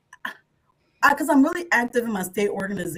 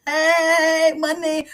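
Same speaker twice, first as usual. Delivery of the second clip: mocking husband; 6 semitones higher, 5 dB louder, much slower than usual. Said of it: "he was like".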